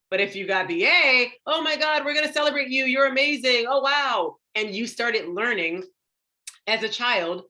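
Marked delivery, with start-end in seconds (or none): 1.5-4.4 high-pitched, gushing parental delight; gushing praise. Acted. Parent celebrating a child's A, gushing. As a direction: celebrate with an over-the-top rush of praise.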